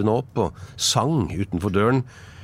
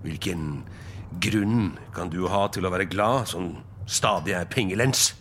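growling; 4 dB quieter than usual. Acted. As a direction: grumble with quiet contempt. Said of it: "knurret Scrooge". (gretten, lavmælt knurring)

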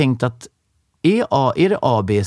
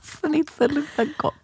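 laughing echo; 13 semitones higher, 5 dB quieter than usual. Real, not acted.

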